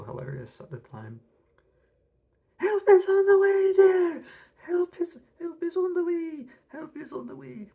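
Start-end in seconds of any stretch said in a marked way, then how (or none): 2.6-7.7 screeched, very high and loud parrot squawk; piercing high parrot call; shrieking parrot cry. Acted.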